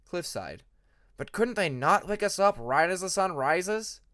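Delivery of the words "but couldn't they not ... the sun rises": slow, higher, drawn-out whine; whiny complaint. A narrator's reading. Cliff groaning to classmates about waking at sunrise. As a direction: plead against the early bell.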